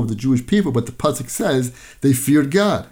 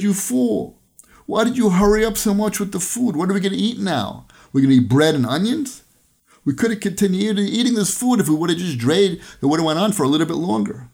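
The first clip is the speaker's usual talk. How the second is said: upset scolding; 5 semitones higher than usual. Retold or imitated. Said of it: "she was all upset".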